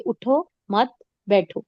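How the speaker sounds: اٹھو, مت and بیٹھو each set apart; small breaks between اٹھو, مت and بیٹھو; three separate words. Shown as a demonstration. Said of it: "تین لفظ بولے".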